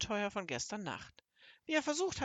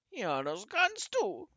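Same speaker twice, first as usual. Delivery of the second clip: slow, high, tearful toad voice; hammed-up weepy reply, louder and slower; sobbing; 4 semitones higher, 5 dB louder, slower than usual. A narrator's reading. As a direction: draw it out through acted sobs. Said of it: "schluchzte die Unke".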